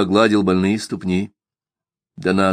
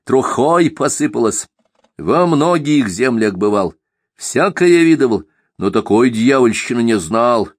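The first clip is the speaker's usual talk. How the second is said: sneering panto villain; 3 semitones higher than usual. Acted. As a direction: gloat like a self-made god. Simagin sneers at old man.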